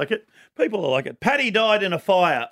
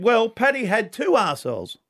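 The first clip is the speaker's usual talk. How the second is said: put-on Irish accent; 5 semitones higher than usual. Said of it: "trying to do the Irish accent only when someone speaks".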